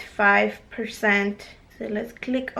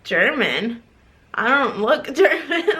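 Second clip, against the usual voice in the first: incredulous, laughing through German; laughing disbelief; 3 semitones higher, 4 dB louder than usual. Retold or imitated. Retelling her reply to a mall stranger's guess, laughing. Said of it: "I was like".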